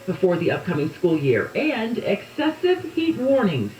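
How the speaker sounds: morning headlines read to listeners; lively newsroom delivery; radio news read. Real, not acted.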